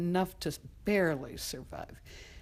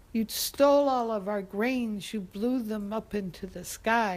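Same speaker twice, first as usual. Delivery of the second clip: raised voice, high at the start; loud charge, easing as it goes; accusing; 4 semitones higher, 5 dB louder than usual. Acted. Boy telling the North Wind it stole the grain, accusing.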